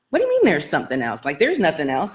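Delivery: fast retold objection; incredulous retort. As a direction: rattle it off in disbelief. Retelling her own disbelieving reply.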